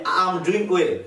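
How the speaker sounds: I AM merged into one long 'aam'; joined words. Shown as a demonstration. Teacher shows learners how it sounds, joined. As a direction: run 'I am' together as 'aam'. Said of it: "একসাথে করে দিছি".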